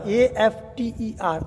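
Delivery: after spelled slowly, one letter at a time; slow spelling. Shown as a demonstration. Teacher spells after slowly for students to copy. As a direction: dictate each letter of after.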